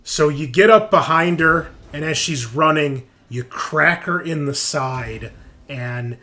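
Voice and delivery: dramatic, emphatic scene narration; game master narration. Acted. Game master describes a critical hit to the players, dramatic narration. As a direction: narrate the brutal blow with punchy emphasis.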